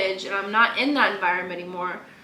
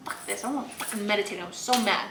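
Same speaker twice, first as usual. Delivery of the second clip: mock angry teen rant; 3 dB louder than usual. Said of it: "like, Virginia girl comes out in you".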